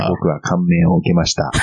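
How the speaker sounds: flat read broken by laughter; deadpan line through giggles; laughing monotone imitation. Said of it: "こんな感じだよね".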